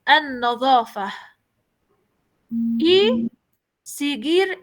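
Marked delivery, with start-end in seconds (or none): 0.1-1.1 an-nadhafa closing on h, not t; pronounced with ja. Shown as a demonstration. Teacher demonstrating to the class: an-nadhafa ending in h. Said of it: "Voy a pronunciar esta palabra".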